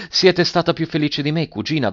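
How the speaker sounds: high-pitched ironic question. A narrator's reading. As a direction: needle lightly, starting high. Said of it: "domandò Alberto con ironico sorriso".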